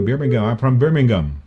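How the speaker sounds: "Birmingham" with a hard g, as Birming-gum; Birmingham pronunciation. Shown as a demonstration. Host demonstrates a local introducing themselves, hard-g "Birmingham". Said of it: "Oh, may ganun".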